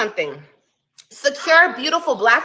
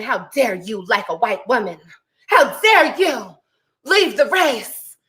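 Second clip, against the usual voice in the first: mock whiny outrage; 3 semitones lower, slower than usual. Mocking women who scold black men, whiny mock outrage. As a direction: parody a scandalized scold. Mocking critics of interracial dating.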